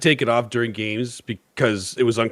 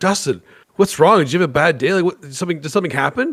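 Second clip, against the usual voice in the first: mock anxious, worried, concerned tone; 6 semitones higher than usual. Telling how a man reacted on seeing the speaker in a mask, imitating a concerned voice. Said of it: "he looked at me like concerned".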